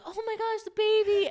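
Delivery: very high, hammed-up shriek of alarm; fake-panic over the baby, way up high; mock parent panic. TikTok parent faking that the baby got hurt, mock panic. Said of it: "they're like".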